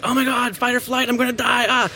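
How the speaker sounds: high, hammed-up fright; mock panic. Party guest startled in a dark room, mock terror, pitched high. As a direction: play the startled guest, fearing for your life. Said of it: "and you're like".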